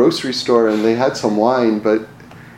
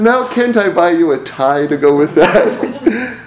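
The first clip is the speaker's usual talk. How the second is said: laughing; 5 semitones higher, 4 dB louder, slower than usual. Retold or imitated. Salesman quote through laughter.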